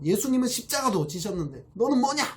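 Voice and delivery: high, indignant jab; imitating a self-righteous rebuke; mock angry scolding. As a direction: throw the guilt trip at her, pitched high. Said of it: "막 이렇게 화를 냅니다".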